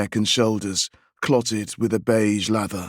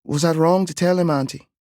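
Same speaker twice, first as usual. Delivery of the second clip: put-on higher, worried child's question; little boy; 7 semitones higher, faster than usual. A narrator's reading. Boy asks his aunt if he did wrong, higher. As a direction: ask as a nervous little boy.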